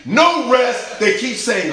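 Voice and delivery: loud, high-pitched preacher's cry; full-force preaching. Real, not acted.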